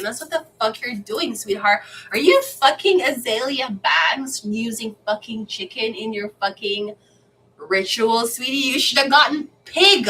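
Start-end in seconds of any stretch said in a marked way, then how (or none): 2.1-8.7 sassy, rising mock question; pitched-up mock sass. Real, not acted. Mock scolding of a rapper. 8.7-10.1 louder, higher taunt; higher, louder teasing jab; taunting punchline. Real, not acted.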